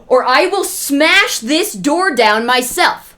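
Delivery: loud, slow threat with SMASH hit hard; bellowed through the door, slow and heavy; threat yelled. Retold or imitated. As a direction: drag out the threat at full volume. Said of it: "and yells".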